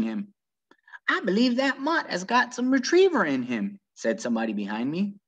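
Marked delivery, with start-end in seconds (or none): 1.1-3.8 a hint of a drawling churchgoer. Churchgoer comments behind Opal.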